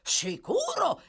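high, drawn-out exclamation; hearty agreement. A narrator's reading. A carpenter agrees toward the attic, calling out. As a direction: stretch out the agreement as a call.

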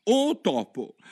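a quick bright hail; eager call. Acted. Alice first calls out to the mouse, brisk. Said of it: "il modo più appropriato di rivolgersi a un topo".

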